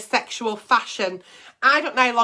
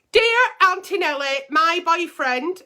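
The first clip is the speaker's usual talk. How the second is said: higher, lightly put-on letter writer's voice; 6 semitones higher than usual. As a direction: read the letter as the timid girl who wrote it. Reading out a viewer's letter.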